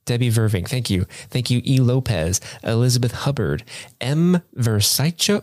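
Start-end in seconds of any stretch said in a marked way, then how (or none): 4.6-5.4 "Versycho" drawn out slowly with a "cho" ending; butchered name. Real, not acted. Host attempting a patron's surname, "Versycho" drawn out with "cho". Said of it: "I completely butchered that".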